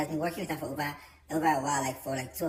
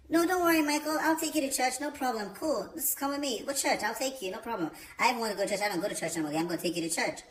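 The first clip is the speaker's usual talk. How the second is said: high, bright-eyed eager friend voice; eager offer; 7 semitones higher than usual. Retold or imitated. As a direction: sell it like the keenest churchgoer. Paul eagerly offers church ride.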